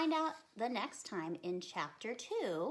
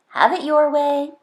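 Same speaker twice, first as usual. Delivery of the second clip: mother giving up; 4 semitones higher, 22 dB louder than usual. Acted. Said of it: "her mother sighed".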